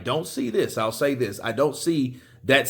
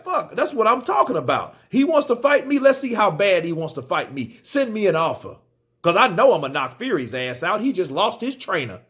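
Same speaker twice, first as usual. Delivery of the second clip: pretend amped; 3 semitones higher than usual. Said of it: "Wilder should be fucking amped".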